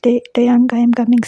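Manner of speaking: screaming for Taeyang. Acted. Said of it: "screamed, looking down".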